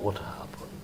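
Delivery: a breathy, unvoiced what happened; breathy villain voice. Actor demoing how Love speaks, breathed hush. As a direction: breathe it with no voice at all. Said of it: "his voice will be like".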